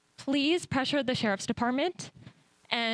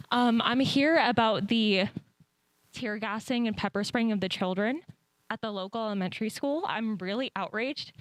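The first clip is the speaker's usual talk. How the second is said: breathless after sprinting; out of breath. Real, not acted. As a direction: talk while catching your breath. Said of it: "Sorry, I'm out of breath".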